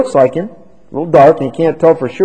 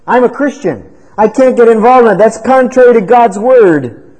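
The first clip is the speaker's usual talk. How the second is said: firm refusal; 8 semitones higher, 5 dB louder than usual. Acted. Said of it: "you should have said".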